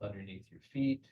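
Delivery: measured meditation guide with long pauses; guided visualization. Acted. Leader settles the group into belly breathing, calm guided meditation. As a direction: guide them calmly, leaving space between phrases.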